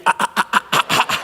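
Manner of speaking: gasping staccato "ah, ah, ah"; mock breathless sobbing. Comic telling of getting whooped so hard, mock breathless sobbing. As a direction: imitate a whooped kid's hitching gasps.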